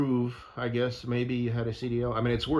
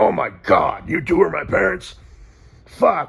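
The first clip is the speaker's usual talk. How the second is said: very loud, gravelly, rough, gruff bellow; 5 semitones higher, 12 dB louder than usual. Imagining a newborn baby talking to its parents, in a gruff baby voice. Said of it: "it gets like this gruff, gruffy voice".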